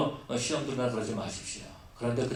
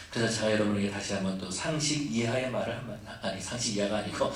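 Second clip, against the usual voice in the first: laughing at slip; 5 semitones lower than usual. Real, not acted.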